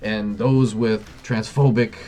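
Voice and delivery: a mocking bureaucrat gasping at the insult; mock freak-out. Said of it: "They start freaking the hell out".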